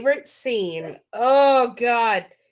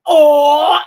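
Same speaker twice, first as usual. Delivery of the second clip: long, loud, higher mimicked "ohhh"; loud imitated "oh"; 5 semitones higher, 16 dB louder than usual. Retelling Mac's reaction in the movie, loud drawn-out "oh". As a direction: belt out a drawn-out mock "oh". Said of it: "just because Mac was like".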